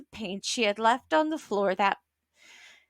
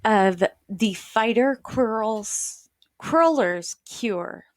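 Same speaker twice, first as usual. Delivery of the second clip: slow title read; slower than usual. Shown as a demonstration. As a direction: read the title slowly, word by word. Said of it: "enjoy the read".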